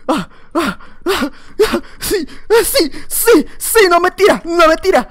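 high, loud mock groaning grunts; loud mock struggle noises of a player about to fall; imitating the guy. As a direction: ham up the opponent straining and yelping. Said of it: "el vato iba todo el rato así como que".

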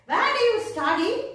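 "Where do you study?" with rising question tune. Shown as a demonstration. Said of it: "I'm questioning, right?".

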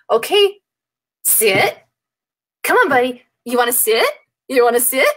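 sit with a rising, asking tune; pleading question tune. Retold or imitated. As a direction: coax the dog like asking a favor. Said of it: "You're putting a question mark at the end".

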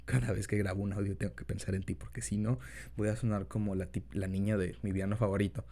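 put-on soft boyfriend voice; gentle, intimate partner talk; incubus. Talks to listener as boyfriend.

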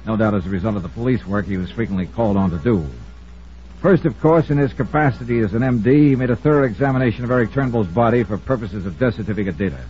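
measured, lightly dramatic voice-over narration; steady noir narrator voice over music; radio narration. A narrator's reading. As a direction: tell it like a hard-boiled detective looking back.

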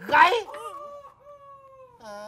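loud, high one-word bark; barked command. Acted. Landlord ordering the peasant to crow, barked. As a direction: snap the order like a whip.

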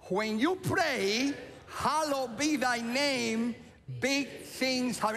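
slow, deliberate, leading the crowd; slow repeated motto. Shown as a demonstration. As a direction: say it slowly with them. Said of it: "Could you say that with me".

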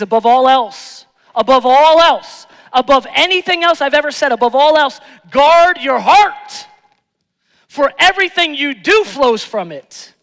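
loud, high preaching of Solomon's words; loud, rising sermon proclamation. Acted. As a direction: proclaim it to the congregation.

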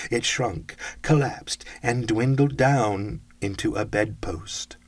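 loud, driving storytelling at a climax; ghost-story climax, declaimed loudly; intense dramatic narration. A narrator's reading. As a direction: narrate with urgent, weighty force.

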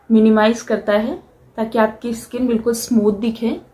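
speaking while applying face mask; talking with fingers on lips. Real, not acted. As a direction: hand partly covering mouth. Seen 0: Fingers rub mask at lips, hand crossing mouth while speaking.

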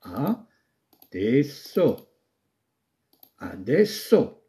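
adesso stretched very slowly, each syllable apart; slow dictation. Shown as a demonstration. Teacher dictates how adesso is written, very slowly. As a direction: dictate adesso at writing speed. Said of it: "وتكتب هكذا".

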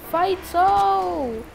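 high, loud cry of surprise; real excited high-pitched yell; startled shout. Real, not acted. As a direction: call out as a fight suddenly erupts. Startled as a fight breaks out.

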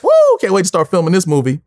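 whoop, then an eager burst; excited. Retold or imitated. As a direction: celebrate landing the part. Retells his excited reaction after audition.

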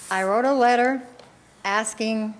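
talking while chewing gum; words around a wad of gum. Real, not acted. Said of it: "excuse the gum".

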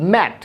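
ম্যাট with open "ae", falling; short A word. Shown as a demonstration. Teacher answering own question, short-vowel ম্যাট. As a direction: say ম্যাট with no glide. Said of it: "এখানে উচ্চারণ হচ্ছে কি".

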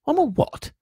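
high, breath-filled astonishment; gasped. A narrator's reading. Boy learns he is a wizard, gasping. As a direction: gasp the question, shocked. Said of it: "gasped Harry".

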